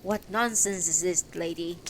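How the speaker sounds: mild narrated shout; forceful shout. Acted. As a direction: challenge her forcefully, without really yelling. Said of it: "I shout more forcefully".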